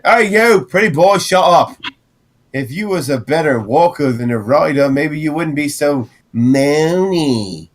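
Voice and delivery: high, rough guard barking at a prisoner; gruff guard voice. Acted. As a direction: play a mean camp guard. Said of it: "guard voiced in GM narration".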